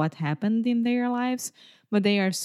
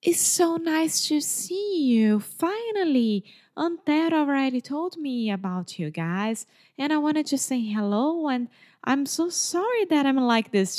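put-on sweet old lady; 6 semitones higher than usual. Neighbor greeting her at the door, higher and gushing. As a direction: gush like a kind elderly neighbor.

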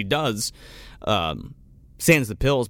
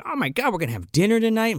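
fast, higher mock-ecstatic gush; 5 semitones higher, faster than usual. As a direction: imitate someone thrilled about plans. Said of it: "ecstatic 'cause she".

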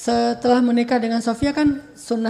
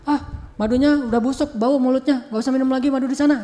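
mildly acted jealous pout; jealous sulk; 3 semitones higher than usual. Jealous wife forbidding honey over there, sulky. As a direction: imitate a sulking wife, lightly. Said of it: "bahasa ngambek, cemburu".

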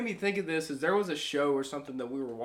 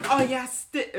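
mock British; 6 semitones higher, slower than usual. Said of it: "they be like".

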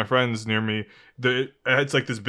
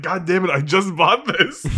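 slow, mildly exasperated mock complaint; acting out being annoyed, drawn out; 4 semitones higher than usual. Imagining losing the pricey lighter, annoyed. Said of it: "It'd just be annoying".

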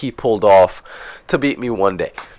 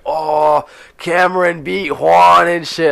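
higher, drawn-out mock taunt; teasing coworkers; 4 semitones higher, slower than usual. Coworkers rub in his loss, mock taunting. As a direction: imitate coworkers crowing over the result.

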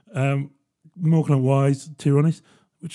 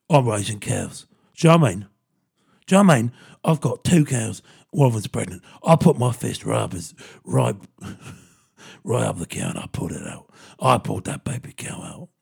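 lightly voiced hard man bragging about his cows; half-hearted hard-nut impression, punchy on the questions; mock tough-guy farmer; 4 semitones lower than usual. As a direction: play it like a gruff action hero on a farm. Jason Statham imagined in The Archers.

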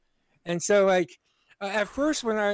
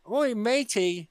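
drawn-out, higher mock British; piratical British accent; 4 semitones higher, slower than usual. American overdoing a British greeting, piratical accent. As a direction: stretch it like a pirate-ish Brit. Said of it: "like a pirate".

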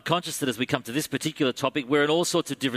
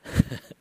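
fake laugh. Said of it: "You can tell I'm being sarcastic".

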